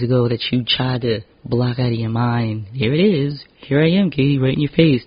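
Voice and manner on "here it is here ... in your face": taunting Facebook. Acted.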